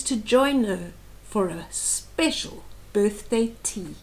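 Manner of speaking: rhythmic read-aloud of a rhyming book; storybook reading voice; story narration. A narrator's reading. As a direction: read the verse gently to a small child. Reads picture book aloud.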